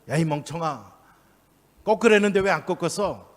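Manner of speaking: mild mock reprimand; mock scolding. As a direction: pretend telling-off, rising on the question. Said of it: "막 야단칩니까?".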